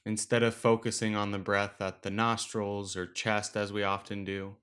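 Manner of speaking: unhurried meditation guide, long pauses between phrases; guided meditation. Acted. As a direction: gently lead listeners through the breath, leaving space after each instruction. Leads a breathing meditation.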